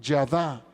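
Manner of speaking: "yadá" with a Y sound and stress on the final A; "yadá" stressed on the final syllable; Hebrew word pronunciation. Shown as a demonstration. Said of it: "con Y, y acento en la última A".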